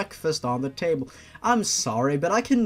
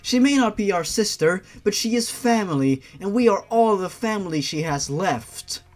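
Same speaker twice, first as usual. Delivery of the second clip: a hint of an earnest younger sister; pleading sister; 4 semitones higher than usual. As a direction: sister backing the plea to Father, slightly higher. Sister joins the plea.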